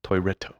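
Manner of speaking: "Toireto" with a tapped r, toi-RE-to; Japanese pronunciation. Shown as a demonstration. Friend teaching the Japanese word for toilet. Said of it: "Like a R".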